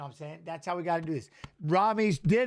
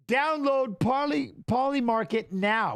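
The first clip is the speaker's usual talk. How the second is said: mock ad read; 5 semitones higher, slower than usual.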